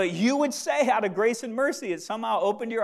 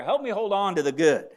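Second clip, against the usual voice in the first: a prayer led for the congregation; spoken prayer; 3 dB louder than usual. Shown as a demonstration. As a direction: pray it, easing down on the repeat. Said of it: "Say, make it a prayer".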